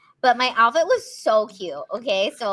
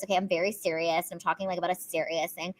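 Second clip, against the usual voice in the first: lower, softer, serious tone; 6 semitones lower, 7 dB quieter, faster than usual. Shown as a demonstration. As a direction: drop into a grave, sober register. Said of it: "there's this voice that's".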